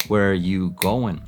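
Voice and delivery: slow "where you going", no "are"; "are" dropped. Shown as a demonstration. Teacher showing native omission, slow with "are" dropped. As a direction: slowly skip "are", saying WHERE-you-GO-en. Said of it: "al final lo omiten".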